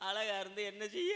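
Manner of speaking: mildly tearful complaint; mock crying. Woman laments to her friend about beauty, mock tearful. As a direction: start a stagey little weep. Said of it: "ஏன்டி அழுகுற?".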